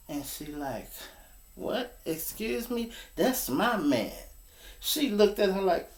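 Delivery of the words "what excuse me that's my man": put-on indignant girlfriend.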